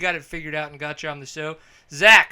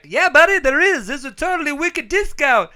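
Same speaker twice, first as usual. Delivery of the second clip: much higher, louder gushing sales pitch; hyped salesman; 11 semitones higher, 8 dB louder than usual. Pretend. Jared pictured pitching the discount to Zach, high and loud. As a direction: sell it like an overexcited bro. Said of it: "And then Jared would have been like".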